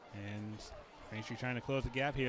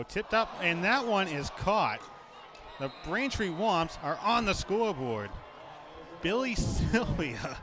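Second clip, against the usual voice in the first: louder and higher, building to the score; excited touchdown call; 6 semitones higher, 6 dB louder than usual. Real, not acted. Play-by-play announcer calling a scoring catch, excited and loud.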